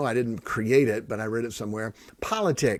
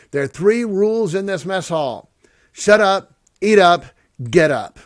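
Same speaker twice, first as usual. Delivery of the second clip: loud barked orders, higher; drill instructor bark; 6 semitones higher, 9 dB louder than usual. Retold or imitated. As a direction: shout the mess hall rules like a drill sergeant.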